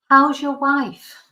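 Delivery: overly deliberate, trying to sound sober; careful drunk question. Retold or imitated. Drunk teacher politely asking about his wife, slow and loud.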